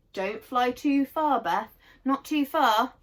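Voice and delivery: loud, slow call upward to the sky. Acted. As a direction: call Beth back gently but firmly. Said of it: "Franny called out to her".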